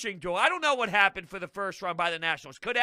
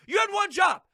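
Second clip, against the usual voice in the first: quoted taunt; 9 semitones higher, 4 dB louder than usual. Retold or imitated. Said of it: "Jankowski said".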